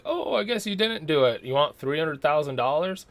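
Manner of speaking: lightly voiced official shrugging it off; offhand officials. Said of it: "they're like".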